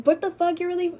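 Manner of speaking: stunned at the gun; shocked outburst. Retold or imitated. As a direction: blurt it in shock. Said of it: "I'm like".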